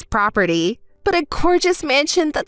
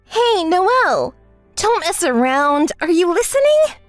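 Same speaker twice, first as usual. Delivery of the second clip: demanding; 3 semitones higher than usual. Acted. Woman calling out her friend, irritated and demanding. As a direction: demand an answer, voice rising.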